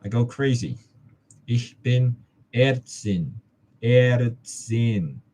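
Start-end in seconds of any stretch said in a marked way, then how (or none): 1.5-5.2 careful slow German drill; slow careful practice. Shown as a demonstration. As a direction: spell out "Ich bin Ärztin" slowly, each word clear. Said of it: "This is how you spell it".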